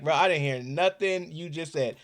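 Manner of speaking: confused mumble. Retold or imitated. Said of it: "you like".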